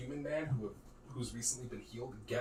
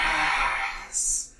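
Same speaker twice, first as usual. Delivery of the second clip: shout; 4 semitones higher, 9 dB louder than usual. Acted. Sword cries out in your ears.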